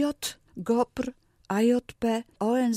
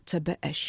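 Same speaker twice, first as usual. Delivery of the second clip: C B S stressed on the last letter, "ce-be-EŚ"; final-syllable stress; 3 semitones lower, faster than usual. Shown as a demonstration. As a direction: spell C B S, accenting the final letter. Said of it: "Na ostatniej sylabie akcentujemy literowce". (C B S z akcentem na ostatnią sylabę: ce-be-EŚ)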